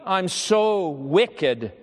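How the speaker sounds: slow, heavy, ashamed; remorseful confession. Retold or imitated. Dying boy confessing to the chaplain, slow and remorseful. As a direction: let the shame drag the words.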